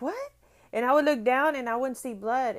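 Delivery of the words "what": put-on child quote. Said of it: "And I was like".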